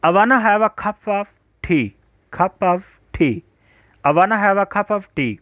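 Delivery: I wanna as "awana", of as "uv", very slow; slow model sentence. Shown as a demonstration. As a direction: drill the contraction slowly for students. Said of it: "आई वाना को आप अवाना पढ़ेंगे".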